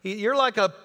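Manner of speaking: hammed-up, high-pitched incredulous outburst; playful high exclaiming, breaking up midway; Festus. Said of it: "I love what Festus goes".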